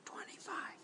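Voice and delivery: whispered number; whisper count. Shown as a demonstration. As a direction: breathe the number out softly. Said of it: "and then whisper".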